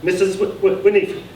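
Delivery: high, stammering, slurred surname; stammering announcement. A narrator's reading. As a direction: stumble over the name proudly. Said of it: "slurring the surname".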